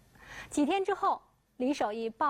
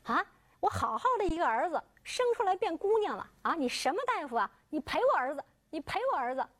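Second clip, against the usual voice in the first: higher, yelling as he beats him; angry shouting; 5 semitones higher than usual. Acted. Father shouts at the doctor while beating him, angry yelling. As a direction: bellow out the grievance in rage. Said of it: "嘴里还一边喊".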